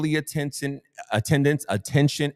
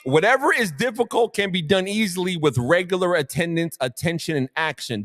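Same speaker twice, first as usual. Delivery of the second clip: higher, punchy motivational emphasis; emphatic reading; 6 semitones higher than usual. Shown as a demonstration. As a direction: drive the quote home, raised. Quote repeated with emphasis.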